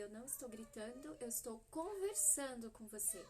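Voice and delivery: calm steady mother. Retold or imitated. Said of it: "eu falei".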